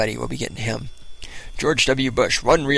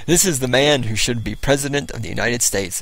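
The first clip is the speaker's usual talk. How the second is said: ordinary talk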